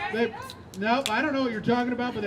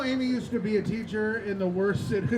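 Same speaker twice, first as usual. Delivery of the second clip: usual speaking voice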